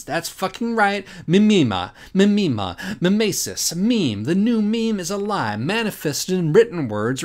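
gleeful build from mimema to meme; excited triumph. Real, not acted. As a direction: hammer home the reveal like a punchline. Triumphant reveal of the pun.

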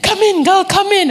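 security guard auntie waving her inside, high and eager; voicing the auntie. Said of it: "She said".

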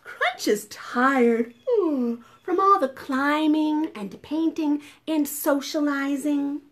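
slow, clear picture-book reading; measured, encouraging storyteller; story read-aloud. A narrator's reading. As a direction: read gently to small children, spacing out the words. Reads the storybook to children.

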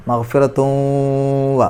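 fuse മഗ്ഫിറത്തും with വ in a held nasal; nasal merging. Shown as a demonstration. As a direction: hum the end of മഗ്ഫിറത്തും long into വ. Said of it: "മണിക്കണം". (മഗ്ഫിറത്തും വ: ലയിപ്പിച്ച് മണിക്കുക)

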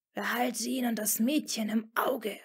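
hissed under the breath, firmly. Acted. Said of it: "fauchte er schließlich bestimmt".

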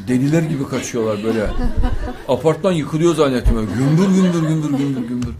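loud laughing retelling of the chaos; booming laughter while imitating the banging; laughing loudly. Real, not acted.

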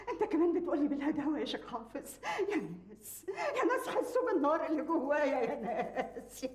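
crying out in anguish; anguished wailing to the crowd; anguished lament. Acted. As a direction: wail to everyone about the fire inside. Mother cries out to the people.

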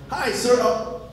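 sweet doorstep voice collapsing into dismay; mock polite surprise. At a stranger's door, seeing a Packers flag, high squeaky dismay.

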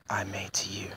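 soft whisper, fading out; whispered vow. Acted. Shadow renewing his promise to Maria, whispering. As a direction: breathe it to her like a secret.

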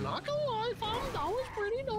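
put-on high-pitched Toronto slang accent. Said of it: "It's my Toronto accent here".

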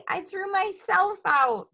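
high-pitched character voice; Froggy. A narrator's reading. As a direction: pipe up as the little frog. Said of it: "said Froggy".

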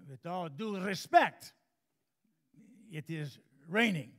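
firm with all due respect; hammed-up stiff official insisting; stern Redvik. Redvik insists it's raining.

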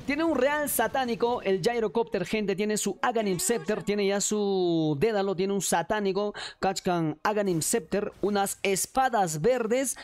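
live play-by-play. Acted.

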